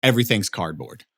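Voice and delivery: high, loud mock-enthusiastic gushing; mock hype. Podcaster mocking fans' hype over cardboard props, high and loud. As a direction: gush like an overexcited fan, fast.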